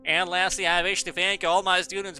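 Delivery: put-on grand ceremonial voice; orating headmaster. Ancient headmaster thanking all the students, orating. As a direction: deliver a solemn mock farewell address.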